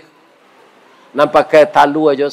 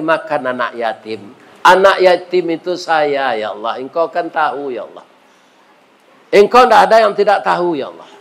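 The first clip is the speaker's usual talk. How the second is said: tearful prayer. Acted. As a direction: pray to God as if near tears. Doctor prays for the patient. (doa penuh haru dengan suara lirih)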